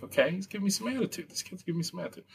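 very soft muttered inner voice, almost under the breath; inner thought. Retold or imitated. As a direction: think it to yourself, barely voicing the words. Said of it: "I'm like".

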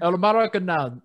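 El Maracanazo slipping into an Italian accent by mistake; Italian-sounding accent. Shown as a demonstration. Naming the match for his cohost, accidental Italian accent. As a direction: aim for Spanish and land in an Italian accent. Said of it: "Now I'm doing, like, Italian".

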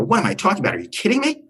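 high-pitched mock indignation; hammed-up irate caller; retold screaming. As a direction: act incredulous outrage on the phone. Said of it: "I started screaming at him".

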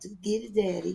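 mock girlfriend. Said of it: "She thought he was dancing".

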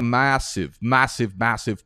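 MASSIVE drawn out, British-style; British-tinged massive. Real, not acted. Host echoing a British girl he talks to, British-tinged MASSIVE. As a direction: lean on each MASSIVE with a borrowed British sound. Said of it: "Sorry for saying massive like that".

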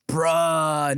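drawn-out youth-slang voice; kids today. Retold or imitated. Comparing the accent to how kids talk, imitated youth tone. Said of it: "today all the kids are like".

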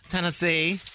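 chewing while talking. Real, not acted. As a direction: say it mid-chew with a mouth full. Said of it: "I can hear you chewing".

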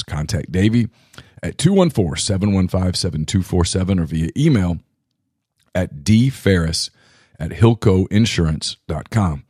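hoarse, worn-out voice; raspy whisper. Real, not acted. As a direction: read through a raspy throat. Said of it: "Excuse my voice".

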